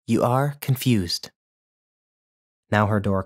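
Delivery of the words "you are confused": slow, deliberate put-down; slow condescension; flat dismissal. A narrator's reading. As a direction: spell it out condescendingly. Dismissing his story.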